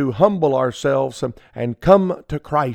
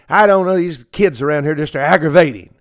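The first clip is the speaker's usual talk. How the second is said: snide grumbling put-on voice, louder; smarty mouth; 4 dB louder than usual. Smart-mouthed church member grumbling about the children, snide. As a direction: sneer about the kids. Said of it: "with my little smarty mouth and say".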